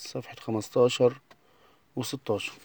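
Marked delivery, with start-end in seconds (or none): none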